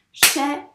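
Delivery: "Chaîne" in two loud separate beats, chaî, ne; "Chaîne" with a gap before a voiced ne; counting syllables. Shown as a demonstration. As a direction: punch out both syllables of "Chaîne". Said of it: "On a bien deux syllabes".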